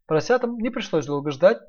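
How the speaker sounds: ordinary delivery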